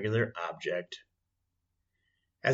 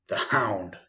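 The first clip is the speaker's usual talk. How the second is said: urgent cry. Acted. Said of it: "cried Holmes".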